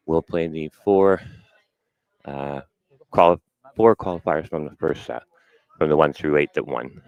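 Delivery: slightly out of breath, after running around. Real, not acted. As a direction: talk while catching your breath. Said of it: "a little out of breath from running around".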